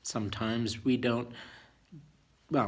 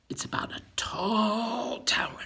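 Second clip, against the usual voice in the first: hushed teaser; 9 semitones higher than usual. Acted. Teasing the story, hushed.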